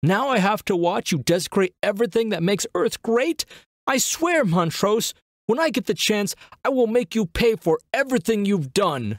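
very high, howled scream. An admiral facing a man who points a gun at him, howling.

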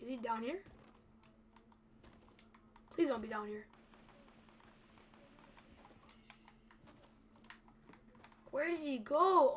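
frightened, scared, begging, pleading under pressure. Searching for a hidden opponent with almost no health: scared. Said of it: "I'm so scared".

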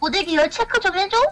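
taunting rich bully voice. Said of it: "성대모사 한 겁니다".

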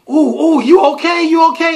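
high, loud, concerned fussing crowd.

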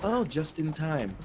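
put-on, soft, very heavy sarcasm. Speaker retells answering her once she finally saw the text; retelling a very sarcastic reply. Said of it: "very, very sarcastically".

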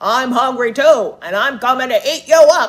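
very loud, booming, ugly storybook troll voice. Reading a story aloud, the troll answers the middle goat: troll voice. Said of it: "And under the bridge lived an ugly green troll".

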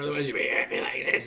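dry, parched voice. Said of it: "Sometimes you can hear my voice, it gets really dry".

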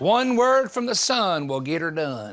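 put-on Tennessee accent. Reading Matthew to listeners, saying a funny line in a Tennessee accent. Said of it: "I'm going to have to say it in Tennessee accent".

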